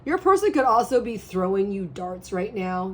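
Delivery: hoarse, voice giving out. Real, not acted. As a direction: strain through a hoarse throat. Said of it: "I'm losing my voice".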